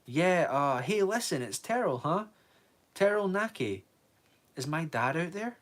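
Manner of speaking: high, loud nervous call into the dark. Acted. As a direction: shout to be heard by hidden men. Boy calling to armed men.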